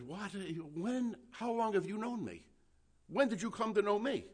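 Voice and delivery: high, baffled questions; astonished. Retold or imitated. Nathanael asking Jesus how he knows him, astonished. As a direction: rise up in disbelief. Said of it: "He says".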